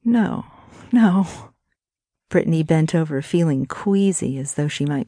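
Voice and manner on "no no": higher, louder cries of no; distressed disbelief. Acted. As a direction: reject it in shock. Brittany is devastated.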